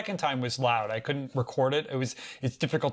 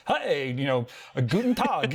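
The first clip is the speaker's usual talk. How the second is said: mock German greeting. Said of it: "It was".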